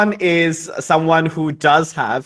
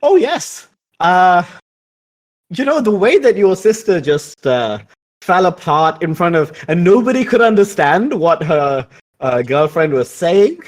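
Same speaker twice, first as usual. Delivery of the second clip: Marie Joanne aloud; 3 semitones higher than usual. Acted. Marie Joanne recalls the sister falling apart aloud, light gossip. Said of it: "she will say out loud".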